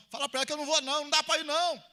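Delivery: loud, high, fast angry yell; yelled refusal, imitating someone; retold shout. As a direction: shout the refusal as if reporting a rude reply. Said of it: "Ele gritou comigo".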